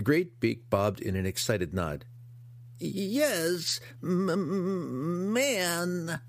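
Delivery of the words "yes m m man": high, eager monster stammer; grotesque monster voice. Acted. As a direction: nod it out eagerly. Hookar excitedly confirming.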